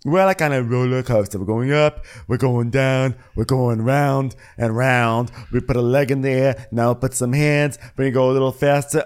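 peppy instructor voice; mock fitness instructor; Dorinda aerobics. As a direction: lead it like an aerobics class. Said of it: "Dorinda aerobics".

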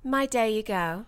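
slow, careful mock Cockney; Cockney attempt. Guest repeats a phrase after him, trying Cockney. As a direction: echo it in fake Cockney.

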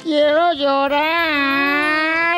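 alarga el quiero llorar, muy lento; llanto fingido. Pretend. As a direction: lloriquea en broma, estirando cada sílaba. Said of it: "me trata mal". (berrinche de llanto falso, arrastrado)

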